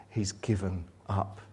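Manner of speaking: whispered, voiceless. Acted. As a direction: breathe it out in a whisper. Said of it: "whispered line".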